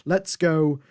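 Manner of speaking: attempted Italian accent, quoting a radio message; lightly put-on Italian accent. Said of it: "that was my best Italian accent".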